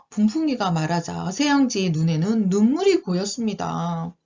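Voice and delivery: put-on lilting storybook narration for young listeners; children's storytelling. A narrator's reading. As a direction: read it like a picture book.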